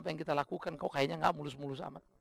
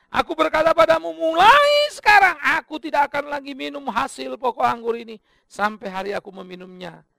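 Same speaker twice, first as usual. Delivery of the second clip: voicing Jesus; 9 semitones higher, 14 dB louder than usual. Pastor voicing Jesus at the last supper, loud and solemn. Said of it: "Dan Dia berkata".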